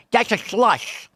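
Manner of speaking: That's said with a wet slushed s, "ak a lak"; lisping cartoon kid voice on "That's a slush"; slushy s. Shown as a demonstration. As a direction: slur the s of That's into a sh sound. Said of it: "He talks like this".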